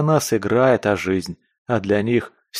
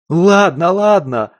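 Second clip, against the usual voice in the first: much higher, louder panicked squeal; squealing like a stuck pig; 9 semitones higher, 7 dB louder, slower than usual. Acted. Captive with a dagger at his eye, squealing. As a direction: shriek in terror, giving in. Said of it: "резаным поросёнком заверещал Скворец".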